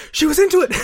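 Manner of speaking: high, loud shocked exclaim. Retold or imitated. Fan retelling watch-along shock at the romance, shocked. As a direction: blurt it out in total surprise. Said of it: "fully taken aback".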